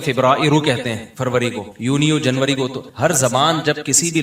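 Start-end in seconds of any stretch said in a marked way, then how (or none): 0.0-0.6 فبرائرو said the Arabic way, fib-RA-i-ru; Arabic pronunciation. Shown as a demonstration. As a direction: give فبرائرو its long Arabic middle vowel. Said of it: "اب جیسے عربی لوگ ہیں".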